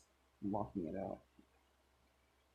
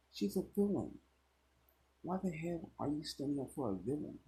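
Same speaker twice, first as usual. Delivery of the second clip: sneering bully; 5 semitones higher, faster than usual. Acted.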